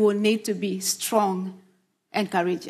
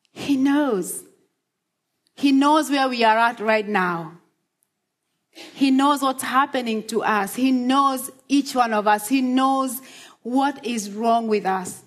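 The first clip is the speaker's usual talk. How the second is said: rising preaching; 3 semitones higher than usual. Acted. Pastor reassures flood-hit congregation, rising preaching refrain. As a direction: build the refrain line by line. Repeated "He knows" sermon build.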